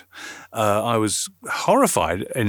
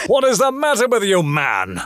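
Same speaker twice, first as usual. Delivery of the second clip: mock exasperated; 11 semitones higher, 4 dB louder than usual. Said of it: "it was".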